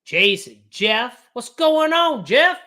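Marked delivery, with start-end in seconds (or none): 1.3-2.6 much higher, loud happy greeting; light up as he greets; excited greeting. Real, not acted. Streamer excitedly greeting Jeff on the call.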